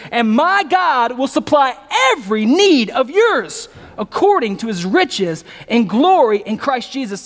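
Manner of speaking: slow, measured reading of the verse; slow scripture reading. Acted. Preacher reading the verse to his congregation, slow and measured. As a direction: lay each word down deliberately.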